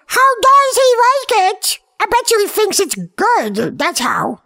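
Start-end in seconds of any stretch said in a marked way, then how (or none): 0.1-1.8 high, loud, slow storyteller; narrator voice. Acted. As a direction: boom it like a dramatic narrator. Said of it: "the narrator goes".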